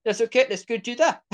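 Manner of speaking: rising to a high, laughing shout of agreement; a big easygoing guy happily saying yes; excited uncle. Retold or imitated. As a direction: uncle cheerfully agreeing to the road trip, loud and laughing. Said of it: "and he was like".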